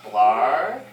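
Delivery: low start sliding up like a question; tentative tryout. A narrator's reading. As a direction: offer the word with a rising lilt. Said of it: "and he says".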